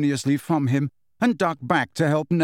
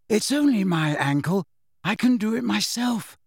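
higher-pitched, insistent protest; impatient; 7 semitones higher than usual. A narrator's reading. Injured girl refuses help, impatiently. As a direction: brush off the help, pitch climbing. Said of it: "said Ginny impatiently".

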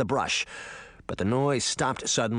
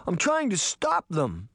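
scared pleading; 6 semitones higher than usual. Acted. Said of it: "he cried".

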